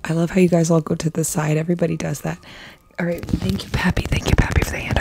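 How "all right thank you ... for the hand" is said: breathy whisper to the viewers. Real, not acted. ASMR live, whispered thanks.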